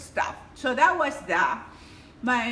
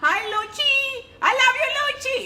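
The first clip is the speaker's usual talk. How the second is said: said through a laugh, pitched high; affectionate shout-out through giggles; 12 semitones higher, 4 dB louder than usual. Real, not acted. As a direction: laugh while you say it. Greeting a viewer fondly.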